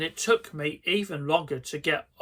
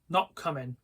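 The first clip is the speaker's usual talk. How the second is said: choked out. Acted. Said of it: "I finally managed to choke out".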